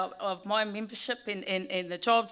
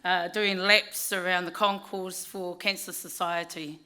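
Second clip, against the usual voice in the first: hoarse, croaky voice after a weekend of cheering. Real, not acted. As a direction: speak through a croaky voice. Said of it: "excuse the, uh, croaky voice".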